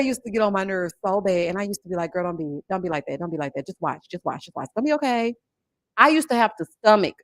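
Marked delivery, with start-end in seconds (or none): 2.1-5.3 soothing. Retold or imitated. Soothing talk to the TV.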